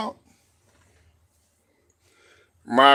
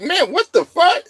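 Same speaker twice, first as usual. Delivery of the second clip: shocked disbelief. Retold or imitated. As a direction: drag it out in total shock. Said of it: "I'm like".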